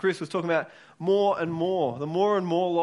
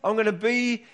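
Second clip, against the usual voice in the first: passionate Jesus pleading; 4 semitones higher than usual. Retold or imitated. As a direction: plead with them like Jesus urging his disciples. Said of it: "He, he's saying".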